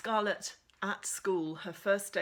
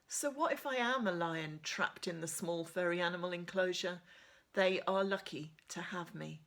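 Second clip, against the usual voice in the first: steady first-person reading of a novel; measured storybook narration; story narration. A narrator's reading. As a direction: read it like a teen heroine telling her story. Reads novel chapter aloud.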